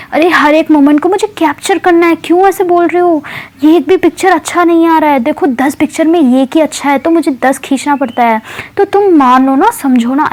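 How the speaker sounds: high-pitched pleading friend, imitated; half-whine it up high, asking to be understood; Anshu pleading. Anshu defends her photos to annoyed Kavi, high imitated pleading. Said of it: "ऐसे बोलती है".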